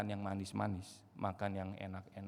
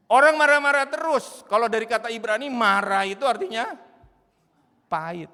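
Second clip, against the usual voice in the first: loud, high, urgent preaching; preaching at full force; 11 semitones higher, 16 dB louder than usual. Acted. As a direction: drive the warning home from the pulpit. Preacher raises voice.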